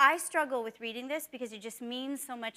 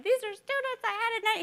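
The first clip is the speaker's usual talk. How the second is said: high, louder pleading explanation; acted-out overwhelmed explaining; emotional explaining; 10 semitones higher, 5 dB louder than usual. Teacher imagining explaining her tears to her boyfriend, emotional.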